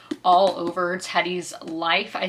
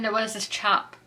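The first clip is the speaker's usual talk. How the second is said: attempted posh accent slipping into Australian; light mock-Australian accent meant as posh; botched posh accent. Vlogger introducing a chap from Eden, posh accent slipping into Australian. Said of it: "still doing the Australian accent when I should be doing a posh accent".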